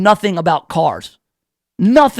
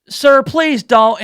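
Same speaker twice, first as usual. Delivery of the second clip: polite plea; 5 semitones higher, much slower than usual. Retold or imitated. Pleading with old man.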